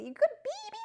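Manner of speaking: put-on squeaky high baby talk to birds; high-pitched voice. Shown as a demonstration. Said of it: "So the high pitch".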